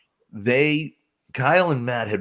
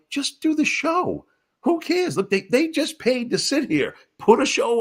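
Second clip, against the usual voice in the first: mock nonchalant; 13 semitones higher than usual. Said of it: "I'm like".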